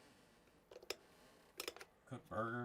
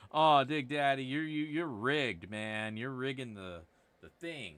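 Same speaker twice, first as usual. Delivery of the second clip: mock accusing viewer; 7 dB louder, slower than usual. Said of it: "being all like".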